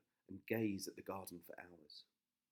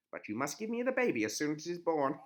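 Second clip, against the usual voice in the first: loud cackling witch; gloating old witch; 6 semitones higher, 10 dB louder than usual. A narrator's reading. Witch voiced.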